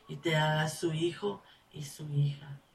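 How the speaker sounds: soft whispered promise. Real, not acted. Preacher inviting the sinner to God, whispering. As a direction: drop to a whisper. Intimate appeal to listener.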